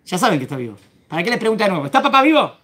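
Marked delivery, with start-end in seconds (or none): 1.9-2.5 as a brother. Acted. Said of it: "les está hablando como hermano ahora".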